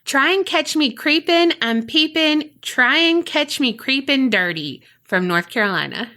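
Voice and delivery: rushing it all out in a single breath; in one breath. Real, not acted. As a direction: say it without stopping to breathe. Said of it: "Can I do it in one breath?".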